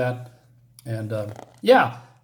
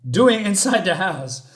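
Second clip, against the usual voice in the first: higher, louder baffled protest; comic indignation; 4 semitones higher, 4 dB louder than usual. Retold or imitated. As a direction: retell an affronted man's puzzled question. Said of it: "from serious to humor".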